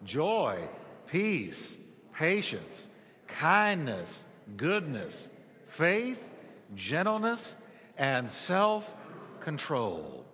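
congregation reciting in unison; man and woman together. Real, not acted. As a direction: say the list together with the room. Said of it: "let's say it together".

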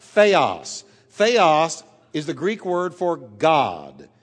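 Theos said slowly and clearly, "THEH-os"; teacher breaking down Theos; Greek word said slowly. Shown as a demonstration. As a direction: spell out Theos for the class. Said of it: "let's break that word up".

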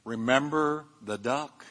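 slow, hushed, half-whispered reminder; mock whisper. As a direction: lean in softly with a sly secret. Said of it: "leaned over to Johnny and whispered".

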